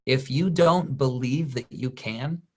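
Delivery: slow, gentle and sincere; kindest way. Retold or imitated. Speaker kindly telling the crew guy belief comes first, slow and gentle. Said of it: "in the kindest way possible".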